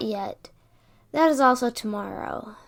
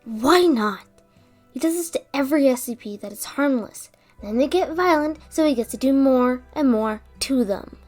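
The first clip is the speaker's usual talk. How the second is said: heated, louder protest; indignant; 5 dB louder than usual. Acted. Protesting to a coworker about harm to SCPs, indignant. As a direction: argue back hotly, punching key words. Angry argument defending harmless SCPs.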